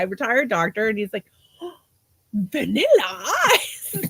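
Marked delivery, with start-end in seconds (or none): 2.3-4.0 excited old Cuban man, badly imitated accent; half-managed Cuban accent, astonished greeting; attempted Cuban accent. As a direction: draw out the name in a rough Cuban accent. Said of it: "I can't do the accent".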